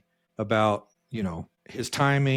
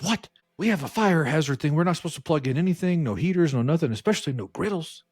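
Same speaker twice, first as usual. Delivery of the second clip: higher, indignant rundown of rules; retold official outrage; imitated alarmed HR lady; 6 semitones higher than usual. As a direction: play mildly scandalized disbelief. Imitating HR's alarmed reaction.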